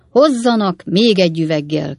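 loud call for another bottle; drunken shout. Acted. Drunk Winkle shouting for another bottle, thundering. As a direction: bellow the order across the kitchen. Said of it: "kiáltott fel Winkle úr".

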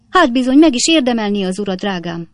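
a busybody maid laying into the master; scolding maid. A narrator's reading. Maid berating the husband for hurting her mistress, high and loud.

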